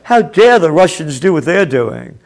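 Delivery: bitter mocking follow-up to the shout; sarcastic angry repeat. Real, not acted. Commentator mocks the double standard, bitter sarcastic repeat.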